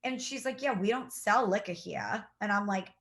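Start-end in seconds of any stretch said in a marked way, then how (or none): 0.6-2.2 imitated Boston cashier, dropped Rs; lightly mock a Boston accent. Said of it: "some accent".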